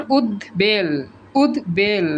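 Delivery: উদ্বেল split as ud-bel; ব sounded. Shown as a demonstration. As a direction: say উদ্বেল with a clear d, then b. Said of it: "উচ্চারিত হয়".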